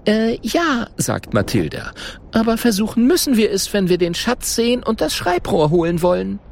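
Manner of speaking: high, fast nervous chatter; nervous hurry. A narrator's reading. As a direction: rush it out, half scared. Mathilda nervously agrees quickly.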